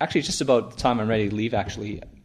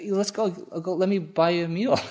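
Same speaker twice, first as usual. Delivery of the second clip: laughing; 9 semitones higher than usual. Retold or imitated. Policeman offers a meal, amused.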